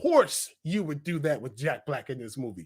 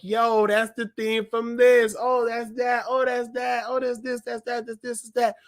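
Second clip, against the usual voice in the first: higher, rattled-off recognition of one thing after another; breathlessly pointing out each find; excited spotting; 4 semitones higher than usual. Retold or imitated. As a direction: keep the pitch up, tick them off.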